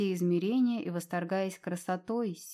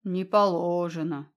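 deep bass; 2 semitones lower, 4 dB louder, slower than usual. A narrator's reading. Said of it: "густой сочный бас".

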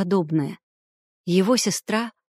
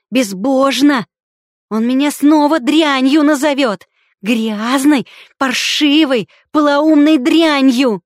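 loud, much higher, shrieking; hysterical scream; 6 semitones higher, 8 dB louder than usual. A narrator's reading. Sister shrieking at her brother at dinner, hysterical. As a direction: build into a shriek.

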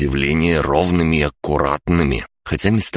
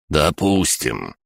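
put-on very old man; much slower than usual. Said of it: "старик едва ли был склонен соглашаться".

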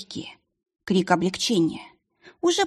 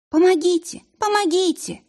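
desperate cry; 11 semitones higher than usual. Acted. Frightened girl crying out to the witch for help. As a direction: scream for help, terrified.

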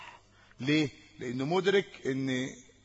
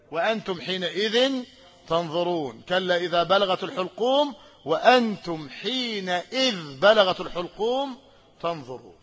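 Quran recitation. Shown as a demonstration. Teacher quoting a Quran verse as an example, lightly intoned. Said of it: "تنوين عوض عن جملة".

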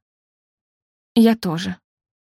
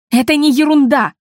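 louder, higher protest; indignant raised voice; 6 semitones higher, 5 dB louder than usual. A narrator's reading. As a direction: snap back that it's not nonsense. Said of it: "Я повысила голос".

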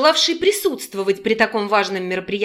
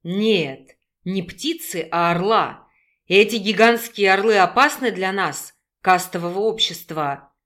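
a hint of a lower male voice; lightly voiced young man; 4 semitones lower than usual. Male character voice.

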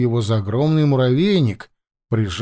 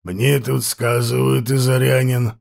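slow, rasping chieftain voice; hoarse voice; slower than usual. Acted. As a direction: drag the words out hoarsely. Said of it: "продолжал хриплый голос".

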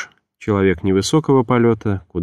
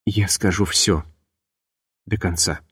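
hissing voice; 5 dB quieter than usual. Acted. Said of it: "сказала она свистящим голосом".

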